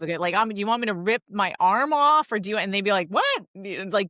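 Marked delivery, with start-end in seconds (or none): 0.3-2.6 silly offer. Retold or imitated. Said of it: "just sort of surprise them". 3.1-3.5 high, startled "What?"; a kid caught off guard, yelping it; baffled kid. Retold or imitated. Child surprised by mom's silly offer, high baffled yelp. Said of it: "just sort of surprise them".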